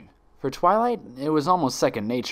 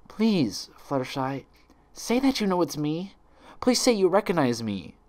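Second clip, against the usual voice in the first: desperate begging; 7 semitones higher than usual. Acted. Twilight begs Fluttershy.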